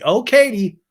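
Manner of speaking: Terry begging Katie to stop, mock wail; mock pleading wail. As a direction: cry her name out in alarm.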